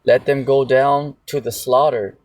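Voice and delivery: slow, deliberate preaching of the verse; scripture reading. Acted. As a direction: lay each phrase down slowly and gravely. Reads verse twenty-seven aloud.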